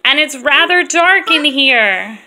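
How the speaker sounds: slow, drawn-out storytelling read; poem read aloud. Acted. Mom reading a silly lion poem to her girls, slow and playful. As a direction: savour each line of the poem.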